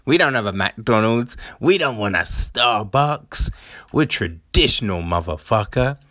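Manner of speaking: hammed-up smugness; mock smug. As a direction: imitate self-satisfied villagers, stretching the praise. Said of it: "you're all smug going".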